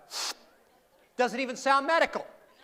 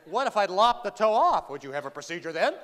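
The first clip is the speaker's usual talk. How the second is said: sarcastic. Retold or imitated. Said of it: "I was being sarcastic".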